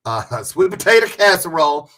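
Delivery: laughing country twang. Shown as a demonstration. Laughing as she repeats it country style for viewers. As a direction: lean into the country sound of sweet potato casserole. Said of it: "You hear how country I got?".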